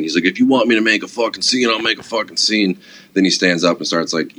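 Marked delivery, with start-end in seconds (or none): 0.3-2.8 higher-pitched mock belligerence; tough, louder. Rowdy customer refusing the guard's request to leave, mock tough. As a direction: imitate a heckler getting worked up, pitch raised. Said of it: "getting a little, little tough, little louder".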